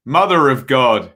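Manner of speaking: mock-solemn exclamation, lightly voiced; Ted Hastings catchphrase. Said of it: "Ted Hastings tones".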